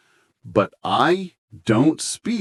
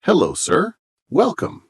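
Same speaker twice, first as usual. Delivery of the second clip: much higher, bright waiter voice; role-play waiter; 12 semitones higher than usual. Pretend. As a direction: play a cheerful waiter greeting a guest. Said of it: "Okay, let's try".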